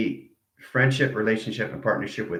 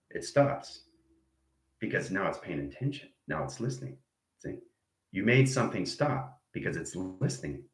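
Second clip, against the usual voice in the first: whispered, much softer; hushed; 3 semitones lower, 7 dB quieter than usual. Shown as a demonstration. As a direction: drop to a near whisper. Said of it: "You're listening to me".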